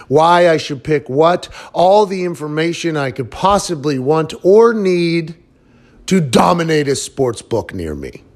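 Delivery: punchy, sing-song sponsor pitch with swooping pitch; podcast ad read. Acted. Host pitching a betting app to listeners, hyped ad read. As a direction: sell it hard, stretching out key words.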